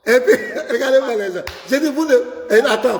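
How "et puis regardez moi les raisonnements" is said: quick, laughing mockery; laughing scorn. Real, not acted. Pastor laughing at the caller's reasoning in mockery. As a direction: laugh at the reasoning while rattling it off.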